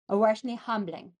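"Oh, aren't they humbling" slurred into a jumble; garbled attempt. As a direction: garble the words while trying to say them. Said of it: "I tried to say it".

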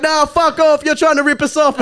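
high, aggressive yell, mock uncle. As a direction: send the driver packing. Uncles yelling at driver.

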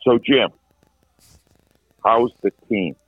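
mock nervous, halting question; hesitant, mildly quivering imitation. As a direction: imitate a timid reporter, long pause mid-question. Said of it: "in a quivering voice go".

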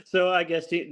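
amused, laughing admission. Real, not acted.

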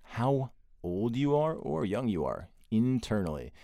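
upbeat promo voice, lively and punchy; episode teaser read. Acted. Host teasing the episode to listeners, punchy promo read. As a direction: tease the guest like a trailer.

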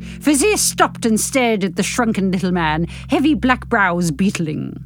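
measured novel-reading voice; story narration. A narrator's reading. Narrator reading a novel to podcast listeners, measured narration. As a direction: read the story out with care. Reads the epilogue aloud.

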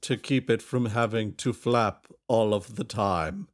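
slow, grand theatrical voice; hammy stage actor. Acted. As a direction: declaim it like bad Shakespeare. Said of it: "Solinar in his performance voice".

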